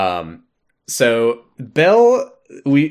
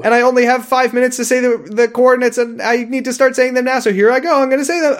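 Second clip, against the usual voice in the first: higher, fast frantic babble; 12 semitones higher, 4 dB louder, faster than usual. Pretend. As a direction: rush it in a high panic. Frantic audio log parody.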